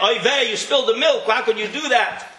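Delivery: high, alarmed fussing parent; overexcited. Retold or imitated. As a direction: overreact like a frantic parent. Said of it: "They get all excited over every little thing".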